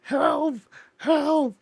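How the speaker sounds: high-pitched mock cry for help; panicked gnome. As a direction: squeal like a little gnome in trouble. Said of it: "that gnome was like".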